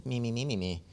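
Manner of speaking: light teasing mimicry of a whine; mock her voice in a small, soft singsong; mocking imitation. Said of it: "I, like, mocked her".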